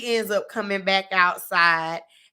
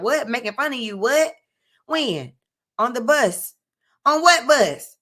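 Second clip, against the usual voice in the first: imitating a baffled man, higher on the questions; retold disbelief, building to a louder final question; mock bafflement; 4 semitones higher, 3 dB louder than usual. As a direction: act out puzzled comebacks, pitch jumping up. Retelling his baffled reply to an accusation.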